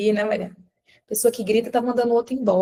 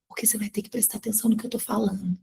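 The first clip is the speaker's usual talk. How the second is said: softly spoken; 3 semitones lower, 8 dB quieter, faster than usual. Shown as a demonstration. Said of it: "eu começo a falar baixinho".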